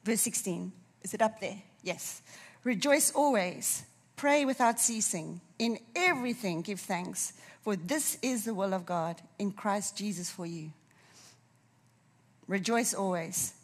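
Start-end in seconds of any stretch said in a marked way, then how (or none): 2.6-10.7 solemn scripture reading. Shown as a demonstration. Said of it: "I'm gonna read it to us".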